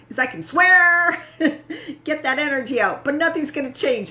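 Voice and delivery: high-pitched, giggling rant; half-laughing frustrated outburst; laughing through the words. Retold or imitated. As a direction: laugh it out while venting. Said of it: "I'm like".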